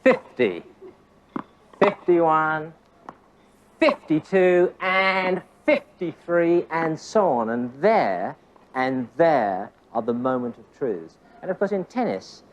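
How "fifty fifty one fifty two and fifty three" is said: FIFTY punched at the start of each number; deliberate count, FIFTY hit hard every time; emphatic counting. Shown as a demonstration. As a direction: call out each strike, drawing out AND before FIFTY-THREE. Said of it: "Emphasis on the moments".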